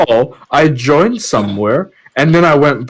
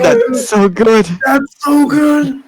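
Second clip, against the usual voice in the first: laughing; 8 semitones higher, slower than usual. Real, not acted. Still laughing at joke.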